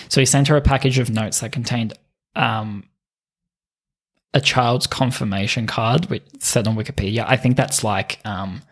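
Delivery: usual speaking voice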